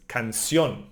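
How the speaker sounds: "canción" stressed on CIÓN; final-syllable stress. Shown as a demonstration. Teacher explaining the accent mark, "canción" stressed on CIÓN. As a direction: lean on the last syllable of "canción". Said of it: "We emphasize this one".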